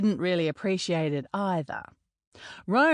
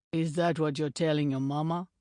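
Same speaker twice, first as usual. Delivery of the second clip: a hint of a lower, gruff giant mocking; lightly voiced big Maori teammate; 3 semitones lower, faster than usual. Donovan mocking Ronan's celibacy pledge, a lightly lower teasing voice. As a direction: slightly lower voice, teasing the boastful American.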